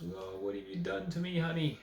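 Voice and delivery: acted-out lament, rising high on "honey"; mock heartbroken. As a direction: imitate a distraught father's cry, lightly hammed-up. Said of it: "he's heartbroken, and he tears his robes".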